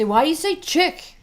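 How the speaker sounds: put-on high, loud whiny kid voice; kids' voice. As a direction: mimic the kids' question. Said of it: "They say".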